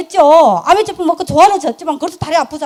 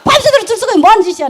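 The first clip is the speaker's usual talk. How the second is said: retold telling-off; 7 semitones higher, 3 dB louder, faster than usual. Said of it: "내가 막 욕해놨어요".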